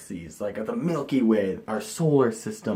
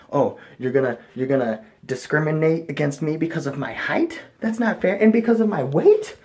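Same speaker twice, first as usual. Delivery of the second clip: higher, indignant complaint; mock outrage; 5 semitones higher than usual. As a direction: play at being wronged. Mock outrage at NASA height rule.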